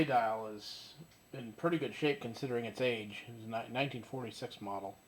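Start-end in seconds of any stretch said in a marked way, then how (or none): none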